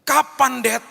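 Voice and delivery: put-on high, loud childlike plea; child asking dad. Eleven-year-old daughter pleading with her dad, high and loud. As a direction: ask like an eleven-year-old who can't wait.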